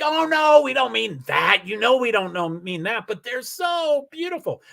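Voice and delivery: high-pitched, protesting "so beautiful"; high defensive mock quote. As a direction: mimic them backpedalling in a high voice. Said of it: "they're like".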